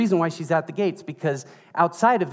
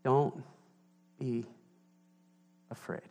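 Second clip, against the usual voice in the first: gentle reassurance; 8 dB quieter than usual. Retold or imitated. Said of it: "now listen to this".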